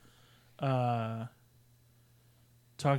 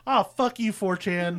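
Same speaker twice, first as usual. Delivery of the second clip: high, exasperated retold curse; annoyed outburst; 6 semitones higher, 3 dB louder than usual. Tricked viewer cursing the website, exasperated. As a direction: curse it out in high-pitched mock outrage.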